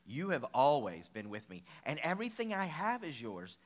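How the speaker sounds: put-on mild gentle father reassuring the older son; gently, retold. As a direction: soften into a father comforting his son. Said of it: "He says, very gently".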